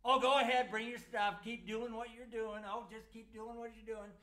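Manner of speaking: loud mocking "oh" at the start; sarcastic reading. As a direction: taunt them with a sneer. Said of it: "that's how Amos put it".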